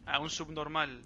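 slow, hushed wildlife narrator; nature documentary narrator. Pretend. Mock wildlife documentary commentary.

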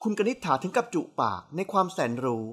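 usual speaking voice

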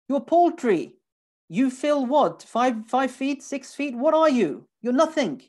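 high, loud mocking put-down; belittling taunt. Teacher voices the verse belittling mankind in a high, loud taunt. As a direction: sneer down at someone tiny. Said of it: "It's like saying".

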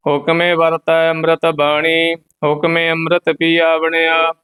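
level, monotone Gurbani chant; measured devotional reading; scripture recitation. Acted. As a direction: recite on one steady note with a held ending.

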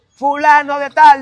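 lento, agudo y fuerte; llamado de guardia a gritos. Retold or imitated. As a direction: cante el nombre como guardia pasando lista. (guardia gritando lento el nombre)

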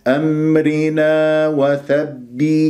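slow أمرنا وثبي with clear i; measured recitation. Shown as a demonstration. Teacher showing students the kasra, slow chant. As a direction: draw out أمرنا, doubled b ending in kasra. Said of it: "كسرة الباء".

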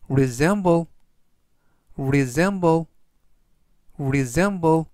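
resemble said clearly three times; teacher modelling resemble; careful pronunciation demo. Shown as a demonstration. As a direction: model the word resemble for learners. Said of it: "이라고 발음하시면 되겠고요".

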